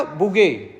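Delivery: "बुगे" said slowly with the final T E silent; drawn-out "बुगे" without the final T; French pronunciation. Shown as a demonstration. Teacher shows students the French word, saying "बुगे" slowly. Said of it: "double T E को हम silent करके बोल रहे हैं".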